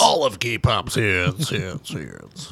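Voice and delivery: mock promo echo dying out; fading echo effect. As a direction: trail the last word away like a radio echo. Echoes the mock station promo.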